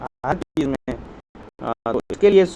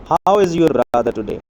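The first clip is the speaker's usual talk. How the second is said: slow reading; much slower than usual. Shown as a demonstration. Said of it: "reading exercise sentence slowly".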